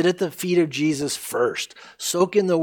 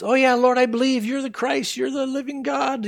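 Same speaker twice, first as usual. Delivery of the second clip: excited Martha; 9 semitones higher than usual. Acted. Martha eager reply.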